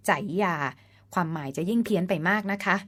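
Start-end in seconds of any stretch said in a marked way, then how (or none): 0.1-0.6 ใจยา read literally from the จ spelling; reading as misspelt. Shown as a demonstration. Narrator warns the misspelling changes the reading, ใจยา said literally. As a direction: read ใจยา just as spelt, "jai-ya". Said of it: "ถ้าเขียนแบบนี้ต้องอ่านว่า".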